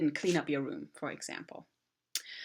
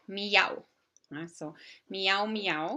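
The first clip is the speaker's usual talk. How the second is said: imitated cat meow; 2 semitones higher, slower than usual. Shown as a demonstration. Teacher showing kids a cat's meow. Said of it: "the sound that a cat makes".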